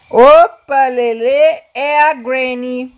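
loud startled yelp; startled alarm. Real, not acted. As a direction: jump at the sight. Spots the Granny, alarmed.

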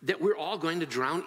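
accusing appeal. Acted. Disciples confronting Jesus as they drown, accusing appeal. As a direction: press the question as an accusation. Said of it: "It's an accusation as well as, as an appeal".

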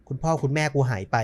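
usual speaking voice

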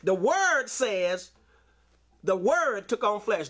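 slow, weighty delivery of word; slow emphasis. Shown as a demonstration. Preacher repeats the verse slowly for the church to get it. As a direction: drive home every word slowly. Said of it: "Get that?".

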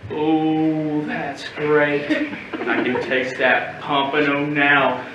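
low, slow relish; savouring. Acted. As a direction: draw it out, tasting it already. Savouring the thought of dinner.

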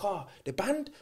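soft, lightly imitated broken-English accent. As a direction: quote him softly in broken English. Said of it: "in a broken accent".

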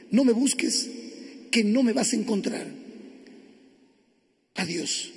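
subdued letter reading. Acted. Husband reading his wife's farewell note, subdued.

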